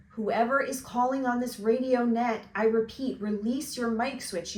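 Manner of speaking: a firm, official voice on the radio; a stern operator ordering him off the channel. Acted.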